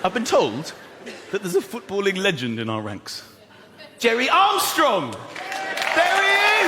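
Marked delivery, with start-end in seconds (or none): 4.0-6.7 high, loud announcement; raised announcer-style shout; rousing introduction. Real, not acted. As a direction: call out the guest to the crowd. Introducing a guest to the crowd.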